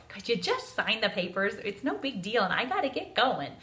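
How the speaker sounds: exasperated. Retold or imitated. Daughter annoyed at mom reading papers.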